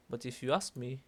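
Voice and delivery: little lilt on "ask me"; singsong lilt. Shown as a demonstration. Teacher repeating the introductory phrase, singsong lilt. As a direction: sing ask me like an unfinished thought. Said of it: "ciertas entonaciones como cantaditas".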